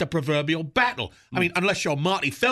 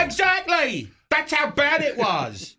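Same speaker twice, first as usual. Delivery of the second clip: excited shout; 6 semitones higher, slower than usual. Acted. Cupid exclaims.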